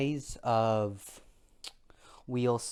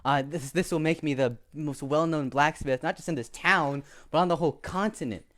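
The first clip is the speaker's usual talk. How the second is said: boastful; 4 semitones higher, 4 dB louder than usual. Acted. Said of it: "He said".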